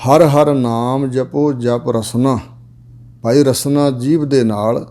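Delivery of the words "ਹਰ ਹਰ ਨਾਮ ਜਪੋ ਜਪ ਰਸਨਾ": very slow, drawn-out recital of each word; slow scripture recital. Shown as a demonstration. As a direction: lay out the sacred line word by word, slowly. Line repeated as explanation.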